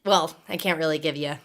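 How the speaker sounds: a low, voiceless whisper. Real, not acted. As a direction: lose the voice and just breathe it out. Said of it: "my voice is gone".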